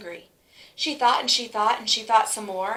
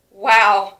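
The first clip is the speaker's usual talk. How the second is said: loud, amazed class wow; the whole class cries out in awe; class shouting wow; 12 dB louder than usual. Acted. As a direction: blurt it out together in wonder.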